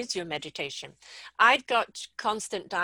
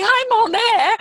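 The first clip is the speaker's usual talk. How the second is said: panicked thought; 12 semitones higher, 11 dB louder, slower than usual. Retold or imitated. Voicing own panic thought.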